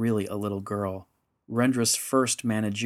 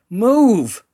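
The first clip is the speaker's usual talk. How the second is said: very loud, high one-word yell; yelled command; 12 semitones higher, 12 dB louder than usual. A narrator's reading. Rendra to Yanfrey as the creatures melt the passageway, yelling. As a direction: yell it as an urgent order. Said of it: "she yelled".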